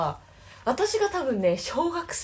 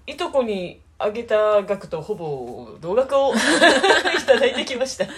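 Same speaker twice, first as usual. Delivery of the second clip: laughing; 5 dB louder than usual. Real, not acted. Admitting she got back almost what she gave her cousins, laughing. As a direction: laugh your way through the admission.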